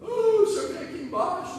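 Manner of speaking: imitating a crying woman. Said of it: "uma mulher chorando no interfone".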